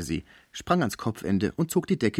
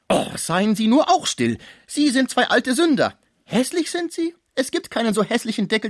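much higher, loud, mocking disbelief; incredulous concierge; 9 semitones higher, 4 dB louder than usual. A narrator's reading. Concierge mocking the sick man's chastity, high and loud. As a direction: scoff loudly at his claim. Cibot berates both men.

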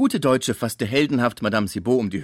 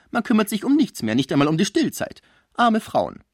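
higher, louder, lamenting busybody; gossiping concierge; 7 semitones higher, 4 dB louder than usual. A narrator's reading. Concierge pressing the sick man about lost love, high and shrill-loud. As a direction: wail over poor abandoned women.

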